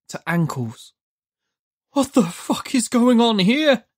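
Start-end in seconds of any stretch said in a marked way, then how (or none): 1.9-3.8 high, sharp demand. A narrator's reading. Demanding shout. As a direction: Judd demands answers in panic. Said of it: "Judd demanded".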